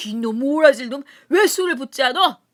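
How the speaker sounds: put-on loud, angry bellow at the boy; drunken scolding. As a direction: yell at the boy to pour. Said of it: "야단을 쳤다". (술 붓는 아이에게 버럭 야단치며)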